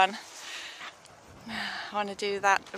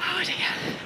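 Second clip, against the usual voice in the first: out of breath; 7 semitones higher than usual. Real, not acted. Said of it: "excuse the heavy breathing".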